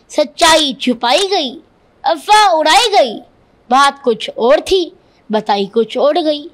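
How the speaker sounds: measured, emphatic declamation of couplets; verse recitation. Acted. Boy quoting remembered lines to defend himself, declaimed recitation. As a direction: recite each line as a punchy phrase, pausing between.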